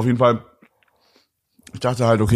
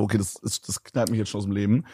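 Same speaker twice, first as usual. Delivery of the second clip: quiet; 3 semitones lower, 6 dB quieter than usual. Retold or imitated. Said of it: "sagt sie auch schon immer so".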